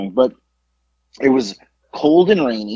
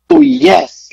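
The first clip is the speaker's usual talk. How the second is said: much higher and louder gushing yes; emphatic "oh, yes"; 11 semitones higher, 8 dB louder than usual. Retold or imitated. Waitress gushing over the order with a loud, high yes. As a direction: squeal it like the best choice ever. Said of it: "Like, it was emphatic".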